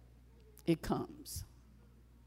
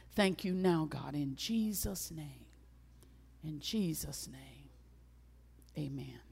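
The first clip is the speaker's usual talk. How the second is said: prayer. Real, not acted. Closing prayer.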